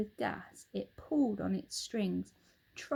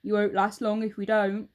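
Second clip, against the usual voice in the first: put-on a louder, gloating old husband; Mr Twit; 7 dB louder than usual. Husband taunts his wife, loud and gloating. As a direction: lean in, relishing the lie.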